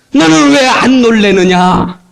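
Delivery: slow voice of the Lord. Acted. Voicing the Lord's question.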